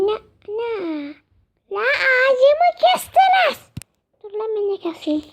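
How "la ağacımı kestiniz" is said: higher, slow put-on voice; put-on complaint. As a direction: whine like a villager whose tree fell. Complaining tree cut, odd voice. (ağacı kesilmiş köylü, tiz ve yavaş sesle sızlanıyor)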